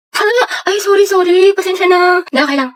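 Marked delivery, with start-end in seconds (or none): none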